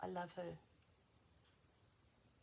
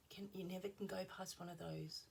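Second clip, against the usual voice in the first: whispering; 6 dB quieter than usual. Real, not acted. Whispered aside.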